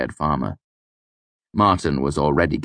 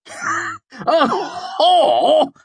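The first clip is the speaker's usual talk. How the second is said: loud, high laughing disbelief; can't believe what he heard; incredulous; 5 dB louder than usual. Acted. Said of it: "he asked incredulously".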